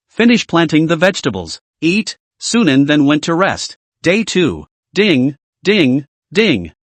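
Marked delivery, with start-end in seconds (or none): 4.9-6.7 ringtone read out as ding ding ding; ding ding ding like a phone ring. A narrator's reading. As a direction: sound out a ringing phone. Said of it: "A series of cell phone rings".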